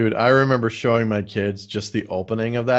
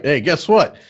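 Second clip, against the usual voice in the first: mock cheery announcer; 4 semitones higher, 6 dB louder than usual.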